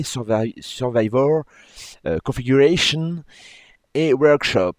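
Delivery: English menu names read with a heavy French accent. Real, not acted. Gamer reading English menu names aloud, heavy French accent. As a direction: say Survivor and Workshop the French way, self-mocking. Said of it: "Avec mon superbe accent".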